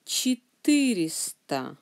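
Четыреста, weight on ты; stress on the second syllable. Shown as a demonstration. Teacher repeating after the accent rule, Четыреста stressed on ты. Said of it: "Accent est sur le U".

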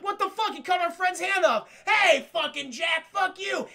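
high, loud angry shout; outraged yelling. Acted. Lizard people to Jack over their friend's hand, outraged. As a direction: yell it in outrage at the offender.

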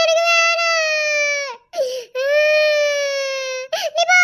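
very slow drawn-out sulky no; sulky refusal. Acted. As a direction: drag it out stubbornly. Sulking child refusing. (மிக மெதுவாக இழுத்து, முரண்டு பிடிக்கும் மறுப்பு)

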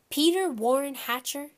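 mother about to scold. A narrator's reading. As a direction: call out the culprit by full name. Mother scolds with full name.

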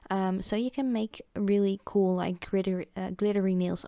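tripping over the words; stuttering. Real, not acted. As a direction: stumble through the phrase. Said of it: "I'm stuttering today".

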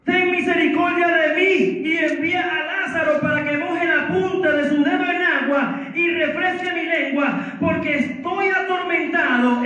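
sustained, ringing pulpit reading; preached scripture reading. Real, not acted. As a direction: proclaim the verse to the congregation. Lee la súplica del rico. (lectura bíblica proclamada con fervor)

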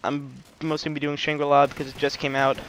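breathless, slightly winded talk; talking while catching breath. Real, not acted. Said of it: "Sorry, I'm out of breath".

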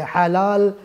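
حلال with the final lam held long; lam drawn out. Shown as a demonstration. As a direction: lengthen the last l of حلال. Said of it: "لام دمایی کشی".

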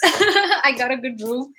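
laughing through the words. Real, not acted. Streamer boasting about the hotel upgrade, laughing. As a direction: laugh it out, pleased.

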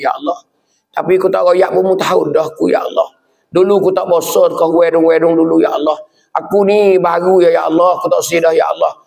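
acted night-time confession to God, insistent and repetitive; pleading prayer. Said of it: "berdoa dengan Tuhan malam-malam". (doa merayu kepada Tuhan)

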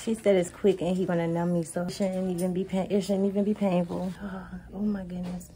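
whispered nerves waiting for the dentist; nervous hush. Real, not acted. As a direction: speak hushed and nervous in the chair. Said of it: "I'm nervous".

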